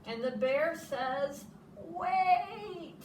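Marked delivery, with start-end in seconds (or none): 1.8-3.0 higher abrupt wait; a touch of alarm. Acted. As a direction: stop them mid-moment. Bear stops friends.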